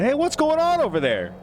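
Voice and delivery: high calling-out patron; curious patron. Acted. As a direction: shout across the tavern.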